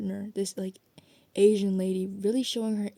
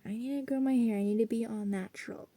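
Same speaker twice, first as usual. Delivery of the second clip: mock pious self, pitched up then settling; quick, lightly hammed-up inner voice; put-on voice; 2 semitones higher, faster than usual. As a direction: lightly put on a voice for your traditional side. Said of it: "I don't know why I did that voice".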